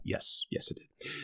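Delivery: sheepish whisper, almost no voice; owning up under his breath; whispered confession. Real, not acted. Admitting his dry sob to listeners in a whisper.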